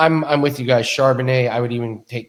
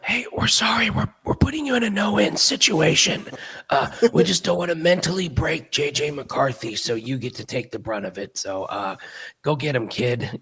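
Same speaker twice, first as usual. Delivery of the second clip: mock quarterback whisperer; 3 semitones higher than usual. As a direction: play a pretend coach gently letting his quarterback down. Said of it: "the quarterback whisper, like".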